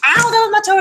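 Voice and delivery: real yelp of pain at a hurt toe; stubbed toe. Real, not acted. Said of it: "just dropped that on".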